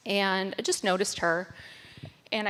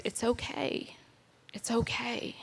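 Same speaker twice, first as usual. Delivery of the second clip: soft, slightly lifted voice, comforting; gentle reassurance; 3 semitones higher, 4 dB quieter than usual. Retold or imitated. Telling a crying young man he is accepted, gently reassuring. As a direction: soothe him quietly, retelling it.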